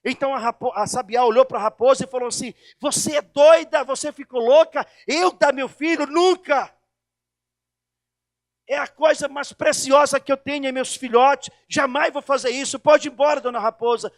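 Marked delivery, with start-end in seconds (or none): 2.8-14.1 raised, indignant mother bird voice; outraged refusal. Acted. (recusa indignada, mais alta e mais forte)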